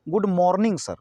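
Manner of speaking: "मॉर्निंग" as MOHR-ning, with closed round 'o'; regional mispronunciation. Shown as a demonstration. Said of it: "ये ज़्यादातर Haryana side". ("मॉर्निंग" को 'मोर्निंग' बोलें, गोल 'ओ')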